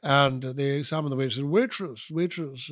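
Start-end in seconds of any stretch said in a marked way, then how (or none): 1.4-2.7 Edinburgh lawyer with fronted, affected vowels; lightly mocking Edinburgh lawyer's accent; umlaut over every vowel. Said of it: "had an umlaut over every vowel".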